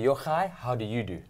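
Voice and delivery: correct formal greeting. Shown as a demonstration. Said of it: "you must say".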